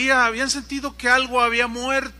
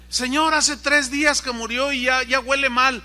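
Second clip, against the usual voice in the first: objeción alzada; 5 semitones higher, 6 dB louder than usual. Acted. Marta objeta a Jesús.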